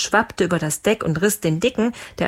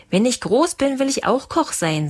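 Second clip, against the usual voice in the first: lightly voiced child, higher pitch; a hint of an eager little boy, pitched up; 6 semitones higher than usual. Boy tells the ship's cook his wish, lightly childlike. Kind spricht zum Dicken.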